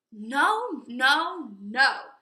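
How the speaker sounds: firm, loud no no no; loud refusal. Acted. Little wolves refusing the pig at the door, loudly. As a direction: shout the refusal through the door.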